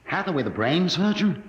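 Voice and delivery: light up at the name; excited recognition. Acted. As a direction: starstruck recognition. Recognizing the famous surgeon.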